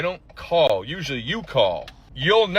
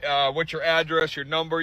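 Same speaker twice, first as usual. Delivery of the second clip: mock professional caller; slower than usual. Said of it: "ask me the professional questions".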